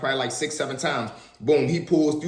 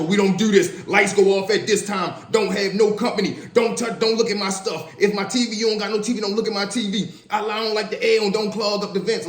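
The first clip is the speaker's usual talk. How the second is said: higher, bossy rule-laying voice; mock strict cellmate; 5 semitones higher than usual. Mocking a cellmate laying down cell rules, bossy and higher. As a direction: rattle off the rules like a petty cell boss.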